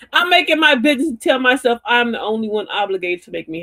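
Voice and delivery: talking through laughter; laughing. Real, not acted. Joking with viewers about their lamp oil, laughing. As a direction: laugh while saying it.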